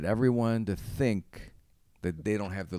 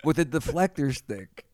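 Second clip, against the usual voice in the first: infomercial pitch; 5 semitones higher than usual. Acted.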